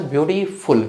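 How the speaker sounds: ब्यूटीफुल broken as ब्यूटी, short stop, फुल; stop between syllables. Shown as a demonstration. Teacher demonstrating the stop in the middle, ब्यूटी-फुल in two parts. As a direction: put a small pause before the फुल of ब्यूटीफुल. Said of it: "थोड़ा सा stop आता है इसमें बीच में".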